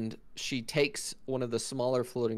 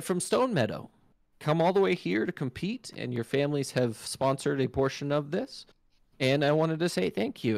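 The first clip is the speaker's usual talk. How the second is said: raised, gracious elven voice; elf host; 4 semitones higher than usual. Acted. Elf host thanking the dwarf families, high and gracious. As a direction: thank them grandly as the regal elf. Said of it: "She said".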